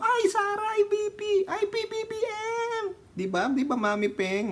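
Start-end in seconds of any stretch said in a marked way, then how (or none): 0.0-3.0 very high, squealing fan gush. Retold or imitated. Mimicking fans who see Sara, high squealing gush. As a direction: shriek like a starstruck fan spotting her idol. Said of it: "Sabi namin".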